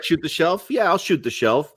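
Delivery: high-pitched imitation of a puzzled woman; lightly amused, high mock female voice; clueless woman playing along.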